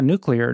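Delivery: NUCLEAR run together, first syllable stressed; correct pronunciation. Shown as a demonstration. Correcting the host's split word, correct pronunciation. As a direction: say nuclear as NOO-klee-er. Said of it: "Nuclear is correct".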